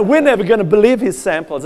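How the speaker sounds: quick put-on Southern scepticism; Southern accent. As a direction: dismiss it in an imitated Southern accent. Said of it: "what would they say in South".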